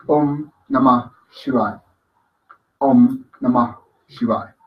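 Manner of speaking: "Namah" ending in a puff of air, words separate; short "Om", breathed end on "Namah", then "Shivaya"; air expelled. Shown as a demonstration. Teacher demonstrating the mantra, air expelled after "Namah". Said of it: "expulsión de aire en la pronunciación del Namah".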